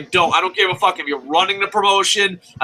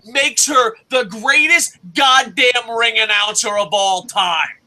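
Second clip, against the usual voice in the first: heated shouting rant; 4 semitones higher than usual. Real, not acted. Ranting at doubting viewers about ring announcers, shouting. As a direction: shout it like you're fed up.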